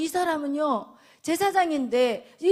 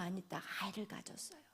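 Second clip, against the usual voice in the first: softer, hushed reveal; whisper; 8 semitones lower, 20 dB quieter, faster than usual. Real, not acted. Preacher whispering Hannah's faith to the congregation. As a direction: lean in and whisper the point.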